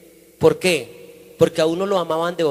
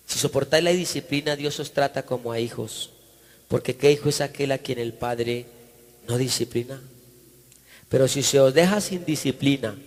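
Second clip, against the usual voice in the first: measured, lower scripture reading voice; 3 semitones lower than usual. Acted. Preacher reads Hebrews aloud to the church, solemn reading. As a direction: read the passage like holy writ.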